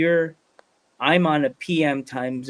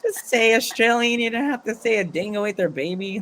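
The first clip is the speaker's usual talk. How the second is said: retold exasperated correction; 7 semitones higher than usual. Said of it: "And I'm like".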